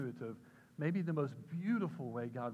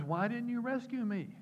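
high, loud complaint; hammed-up indignant question to Jesus; acted protest; 11 semitones higher, 7 dB louder than usual. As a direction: demand an answer at raised pitch. Drowned man confronts Jesus in story.

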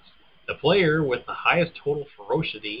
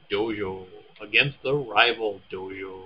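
slow, drawn-out dojo; mock-solemn dojo; 4 semitones lower than usual. Reading out the ninja game's blurb, mock-solemn and slow. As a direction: stretch each dojo with slow ceremony. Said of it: "Why do you keep saying dojo?".

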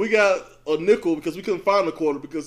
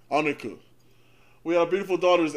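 ordinary talk

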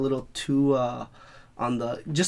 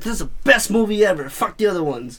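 put-on kid's excitement; 7 semitones higher, 6 dB louder than usual. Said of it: "when I was a kid".

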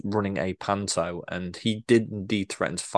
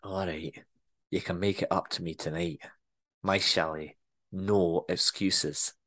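soft, lower, slow Scottish purr; Scottish boss seduces a reluctant worker; low seductive Scottish accent; 3 semitones lower, 6 dB quieter, slower than usual. Acted. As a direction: coax him quietly in Scottish. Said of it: "better Scottish accent than I'm portraying".

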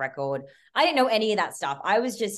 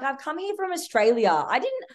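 indignant outburst; 8 semitones higher than usual. Retold or imitated. Telling producers she flew from Australia, outraged. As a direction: pitch climbing high in outrage. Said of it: "I absolutely flipped it".

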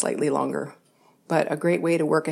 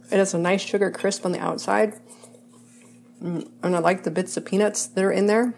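talking while chewing; mouth full; 2 semitones higher than usual. Real, not acted. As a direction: speak around a bite of cookie. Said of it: "it's hard for me to talk with my mouth full".

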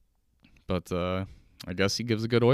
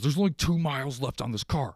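mock angry mechanic; 6 semitones higher than usual. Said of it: "He looks super angry".

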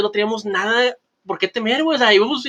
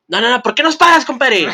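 raised, louder indignant challenge; mock protest; 4 semitones higher, 4 dB louder than usual. Drunk friend challenges the police who stopped them, mock protest. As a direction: play a friend challenging the officer.

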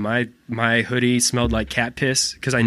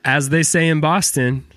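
slower, higher catchphrase; slow retake; 4 semitones higher than usual. Shown as a demonstration. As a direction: draw out the line with a raised pitch. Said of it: "let's do it again".

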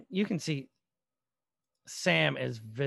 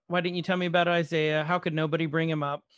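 louder retelling of a heated question; raised voice; 4 dB louder than usual. Retold or imitated. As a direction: mildly raise your voice, pressing him. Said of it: "they're raising their voices".

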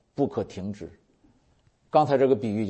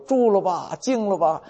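commanding the storm; 8 semitones higher than usual. Acted. Jesus stills the storm.

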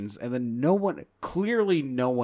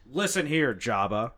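louder, over-enunciated Han Solo voice; Harrison Ford impression; 4 dB louder than usual. Shown as a demonstration. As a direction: lean on each syllable like Ford. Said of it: "That's, that's, that's it".

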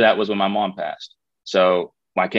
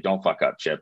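retold quiet warning; 4 semitones lower, 5 dB quieter than usual. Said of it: "he just whispers underneath his breath".

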